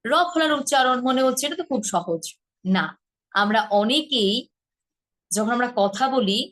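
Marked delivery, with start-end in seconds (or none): none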